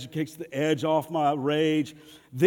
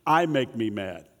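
sincere admission; 6 semitones lower than usual. Real, not acted. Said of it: "let you in on a little secret".

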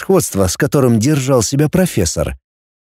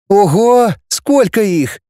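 drawn out; 8 semitones higher, slower than usual. Acted. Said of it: "протянула Катарина".

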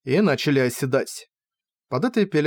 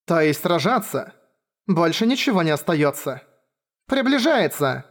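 cold; 2 semitones higher than usual. Acted. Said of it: "холодно сказала женщина в шлеме-ведре".

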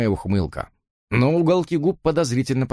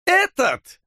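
contemptuous cry. A narrator's reading. Jimmy cries out in contempt about Susan's brother. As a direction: spit the word out with disgust. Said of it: "вскричал Коркоран с непередаваемым презрением".

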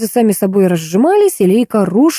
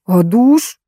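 drawn-out, pleading whine; plaintive drawl. Acted. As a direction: ask for the shower like a sulky child. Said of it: "жалобно протянул Ваня". (жалобно, протяжно)

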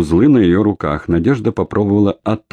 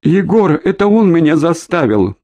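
trembling voice; 11 semitones higher than usual. A narrator's reading. Orlova pleads with Egor, voice trembling. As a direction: plead with a shaking voice. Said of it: "дрогнувшим голосом".

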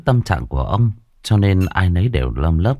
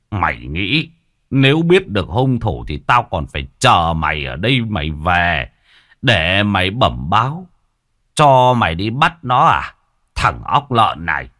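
angry shout. Acted. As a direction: bark down at the foolish son. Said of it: "Ông lại quát". (quát mắng)

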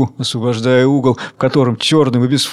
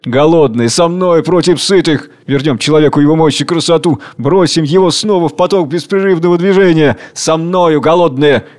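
impassioned calling to revolt, a touch louder; fiery rallying call; 3 semitones higher, 3 dB louder than usual. Acted. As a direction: rouse the starving crowd. Tsar rallies the hungry. (пламенный призыв)

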